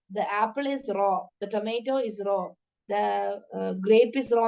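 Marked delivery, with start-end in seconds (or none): 0.1-2.4 very slow, careful English example sentences. Shown as a demonstration. Teacher slowly models the English word raw for students. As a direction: spell it out slowly for the class. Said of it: "R A W".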